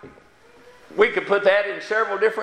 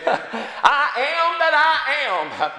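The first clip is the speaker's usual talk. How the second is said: solemn proclamation; 5 semitones higher, much slower than usual. Acted. Quoting God, drawn out.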